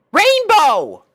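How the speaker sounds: high, loud sharp cry of a name; sharp call. Acted. Twilight stops Rainbow Dash sharply and loudly. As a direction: snap her attention back. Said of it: "Twilight said, sharply".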